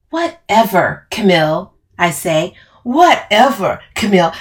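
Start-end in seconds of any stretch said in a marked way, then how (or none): 0.1-1.7 brush-off, falling on whatever; dismissive. Acted. Dismissive reply in the quarrel. 2.8-4.3 louder, higher mimicking comeback; mocking echo. Camille throws the words back mockingly.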